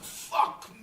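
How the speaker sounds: startled, high yelp of fright; shocked exclamation. Retold or imitated. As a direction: blurt it out in sudden terror. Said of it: "and I was like".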